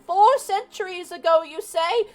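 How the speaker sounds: high, slow crackly granny; old lady voice. Acted. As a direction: play a cackling old woman. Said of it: "I hope you guys appreciate my old lady voice".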